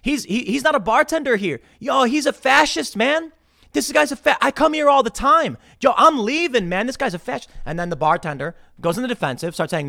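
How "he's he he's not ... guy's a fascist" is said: high, loud pointing accusation; mock accusing shout. Advising Elad to accuse the bartender, loud and high. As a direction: call him out loud across the bar. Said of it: "I'd be like".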